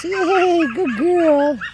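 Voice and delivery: high, delighted praise; happy praise voice. Shown as a demonstration. Trainer praising puppy after recall, happy praise voice. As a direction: cheer her on like she won. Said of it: "Pair the treat with the praise".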